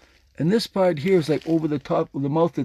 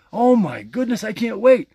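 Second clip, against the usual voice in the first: put-on higher, louder giddy kid who just got a toy; excited little kid; 5 semitones higher, 4 dB louder than usual. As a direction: squeal it like a kid waiting for a present. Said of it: "Do I sound like a little kid?".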